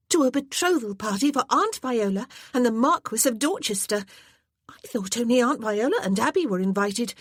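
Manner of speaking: put-on high, loud breathless pleading of an eager girl; a girl begging to go to the party; excited young girl.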